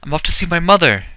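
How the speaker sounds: high, loud and fast shout downward; boy screaming down from the dragon; screamed down. Acted. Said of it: "Edward screamed down".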